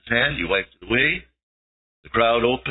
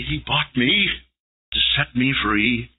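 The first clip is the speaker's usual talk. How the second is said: reverent. Shown as a demonstration. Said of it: "kiss his nail-pierced feet and say".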